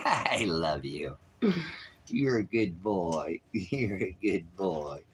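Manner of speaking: slow, drawn-out loving pet talk; tender, lingering praise; doting affection. Real, not acted. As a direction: tell the dog fondly, stretching the words. Doting on his dog.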